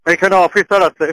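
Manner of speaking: slow, careful repeat of এখানে officer আছে for a listener who missed it; patient slow repeat over a bad phone line; repeated slowly for clarity. Real, not acted. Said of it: "হ্যাঁ?".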